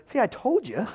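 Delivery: high-pitched mock I-told-you-so; comic complaint. King of Israel griping to Jehoshaphat, comically aggrieved.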